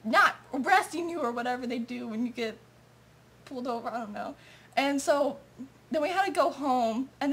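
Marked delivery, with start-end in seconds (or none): 0.0-1.2 higher, sing-song mock cop; mock the cop's smug kindness; mocking fake nice. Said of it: "he thought he was acting all nice".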